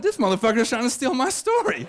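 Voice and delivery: high-pitched, indignant accusation; mock outrage. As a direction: accuse him high, half laughing at yourself. Acted outrage at being exposed.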